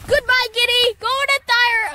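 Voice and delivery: high, loud giggling goodbye; laughing. Pretend. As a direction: tease while giggling. Joking farewell with laughter.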